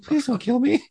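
high-pitched scared plea; mock pleading. Cop retelling the massage to his podcast hosts, high mock plea. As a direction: beg for your life, half joking. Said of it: "I was fucking scared".

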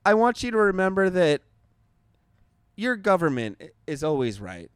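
grand closing address; mock sign-off. Shown as a demonstration. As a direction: deliver it like a heartfelt sign-off. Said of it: "No, that's not right".

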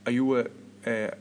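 attempted Southern US accent, barely there; a mild go at a Southern American accent. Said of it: "in his proper Southern American accent".

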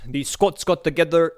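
a weak stab at a Scottish accent on Scots; attempted Scottish accent. Shown as a demonstration. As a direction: try a Scottish accent, half-hearted. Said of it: "I can't do the accent".

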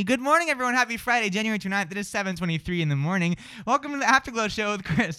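bright, high radio DJ greeting; radio host voice. Pretend. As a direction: open the show like a morning DJ. Mock radio host sign-on.

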